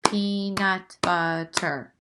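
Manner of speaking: slowly, peanut butter one beat at a time; slow syllable count. Shown as a demonstration. Teacher repeats peanut butter slowly for counting. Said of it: "That's four times".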